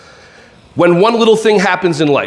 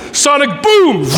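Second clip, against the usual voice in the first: Street Fighter move call; 6 semitones higher, slower than usual. Retold or imitated. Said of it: "that's for the Street Fighter people".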